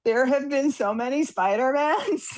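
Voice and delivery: slow, stunned disbelief; acted overwhelmed newcomer; bewildered. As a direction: draw it out, baffled by it all. Acted agent overwhelmed by film lore.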